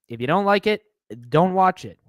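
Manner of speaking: lightly voiced sneering shill; mocking shill. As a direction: parrot the shill line with a mocking tone. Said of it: "the typical shill talking points".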